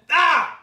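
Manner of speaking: sudden loud, high "ah"; sharp high yelp. Real, not acted. Host catching a slip mid-take, sharp yelp.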